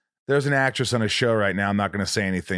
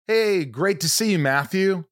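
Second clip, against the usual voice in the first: higher, drawn-out Cockney greeting; Cockney attempt; 6 semitones higher, slower than usual. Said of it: "Let me hear a little Cockney".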